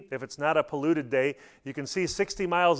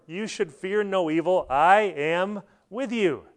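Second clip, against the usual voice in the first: slow, reassuring words; calm reassurance; 3 semitones higher, slower than usual. Acted. Jesus calming the frightened disciples after the storm, slow and reassuring. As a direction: settle them gently, slowly.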